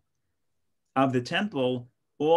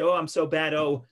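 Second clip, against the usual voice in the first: mock whining.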